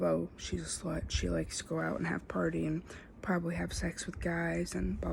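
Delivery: hushed mocking gossip; gossipy whisper. Mimicking gossip about party girls.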